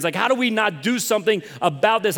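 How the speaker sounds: reliving outrage, pushed and incredulous; retold anger. Preacher reliving anger at Americans over inaction, exasperated. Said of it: "I'm getting angry at Americans".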